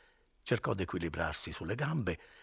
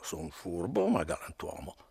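sly whisper. Acted. Drunk Renzo's sly boast.

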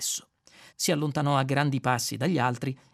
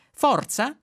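stern prompt, higher and louder; 10 semitones higher, 6 dB louder than usual. A narrator's reading. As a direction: snap it like a strict teacher. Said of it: "disse severo Eddie". (Eddie incalza severo)

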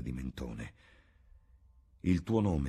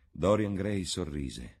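usual speaking voice

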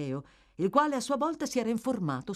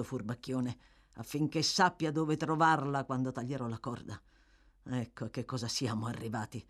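lightly voiced tired rogue, low and casual; hint of weary thief; 4 semitones lower than usual. Toby orders the boy to store his scarf, hint of weary thief. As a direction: slightly lower voice for a worn-out thief. Toby's lines in dialogue.

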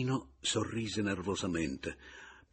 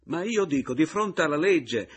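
loud, high indignant cry; louder, pitched-up shout about the law; 10 semitones higher, 10 dB louder than usual. Acted. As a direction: yell it at him in outrage. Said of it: "gridò egli".

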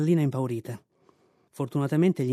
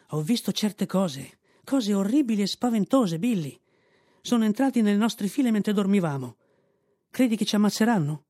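higher, a scared recruit pleading; frightened young mule; 6 semitones higher than usual. A narrator's reading. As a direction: tell of horrible things you saw. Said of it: "young mule frightened".

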